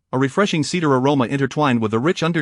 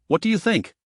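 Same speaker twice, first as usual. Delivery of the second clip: What do you think said higher, each word stressed; each word emphasized; 6 semitones higher than usual. Acted. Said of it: "each word deliberately emphasized".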